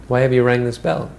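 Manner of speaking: loud demand at the intruders; demanding call. Acted. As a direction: call out sharply to whoever rang. Villagers challenge the thieves.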